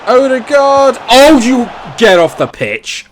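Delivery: high, loud yell of disbelief; furious shout. Real, not acted. Gamer raging at his player after a miss, furious shout. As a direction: scream at the player to get off. Odegaard misses a sitter.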